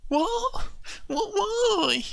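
put-on high alarmed child's cry; panicked child. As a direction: squeal it in disbelief. Child told it's police station.

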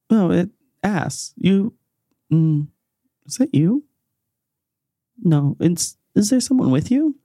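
high, searching questions with long pauses; Az character voice. Acted. Az senses someone beside the recruit, high and halting.

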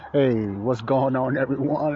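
slowed, settled-down hello; slow low greeting. Shown as a demonstration. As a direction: drop back into a slow easy greeting. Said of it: "That's my morning voice check".

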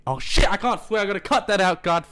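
sudden high-pitched alarm; caught-out exclamation. Real, not acted. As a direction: blurt it, then scramble to take it back. Catches himself swearing on air.

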